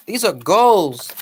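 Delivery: slow, weighty stress on goals; slow and deliberate; slow emphatic repeat. Shown as a demonstration. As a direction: drag it out to drive it home.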